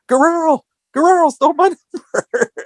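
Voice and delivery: high, laughing mock outrage; imitating Flair. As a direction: squeal it like Flair through a laugh. Flair discovering his stolen number.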